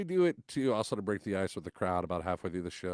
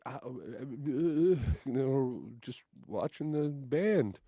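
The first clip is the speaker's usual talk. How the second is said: caught out; 5 semitones higher, much slower than usual. Retold or imitated. Caught kid stammers an excuse.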